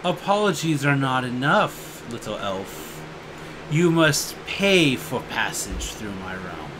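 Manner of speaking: low, soft dragon demand; low dragon demanding a toll from the elf. Acted. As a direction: loom over the little elf. He goes.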